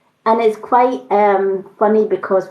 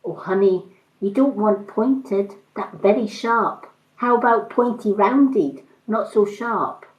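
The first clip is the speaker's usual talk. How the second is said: Chinese accent impression. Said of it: "lovely little Chinese woman".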